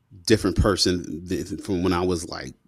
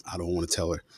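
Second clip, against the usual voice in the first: much softer, dreading thought; dreading whisper-ish; 4 semitones lower, 8 dB quieter, faster than usual. Retold or imitated. Boy dreading telling his mom, much softer and worried. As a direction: say it under your breath, afraid.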